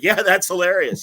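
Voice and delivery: mock polite laugh-along; brightly missing the point; oblivious fake laugh. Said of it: "the guy's like".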